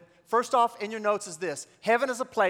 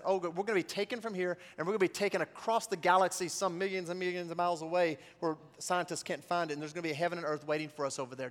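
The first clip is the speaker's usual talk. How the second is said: mock naive belief; 3 semitones lower, 6 dB quieter, faster than usual. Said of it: "something like this".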